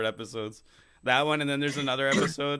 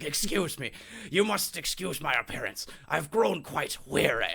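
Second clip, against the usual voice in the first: higher, put-on British voice, slowing at the end; British accent; 4 semitones higher than usual. Sitcom idiot faking intelligence from a wheelchair, British accent. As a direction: play a weary invalid in mock British. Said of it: "like, a British accent".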